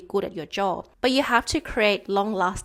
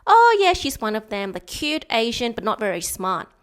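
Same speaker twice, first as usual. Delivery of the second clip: mocking condescending old man; 3 dB louder than usual. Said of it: "they perceive every single Asian chicks".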